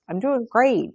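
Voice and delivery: high, singsong mock cheer; put-on cheerfulness. Showing the class an empty polite answer, falsely cheerful. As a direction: pretend brightly that all is great. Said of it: "But, like, you feel like crap".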